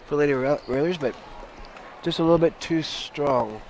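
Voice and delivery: talking while crunching chips; words around a mouthful of chips. Real, not acted. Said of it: "Sorry, I'm crunching my chips".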